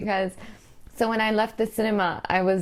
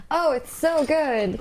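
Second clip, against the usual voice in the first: sarcastic; 5 semitones higher, much slower than usual. Pretend. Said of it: "you're gonna be like".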